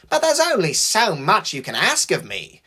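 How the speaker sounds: grumbling. A narrator's reading. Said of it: "grumbled James".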